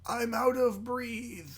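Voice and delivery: "breathe" with a long EE, slow and high; breath as "breathe". Pretend. Co-host echoing the winded line, "breathe" with long EE. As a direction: stretch "breathe" to rhyme with seethe.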